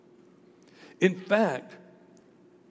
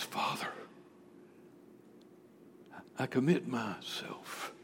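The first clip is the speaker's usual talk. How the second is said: low, hushed, near-whispered prayer; quiet, acted surrender; no longer screaming; 6 semitones lower, 14 dB quieter than usual. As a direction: pray it softly with long pauses. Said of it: "he's no longer screaming".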